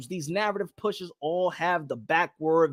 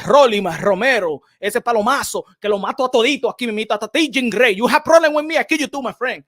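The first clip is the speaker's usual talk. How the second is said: mock trash talk; 3 semitones higher, 4 dB louder than usual. Hyped fighter callout in character.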